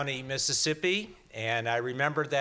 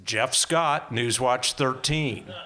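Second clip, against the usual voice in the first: anchor sign-off; 5 dB louder, slower than usual. Retold or imitated. Retelling his on-air sign-off.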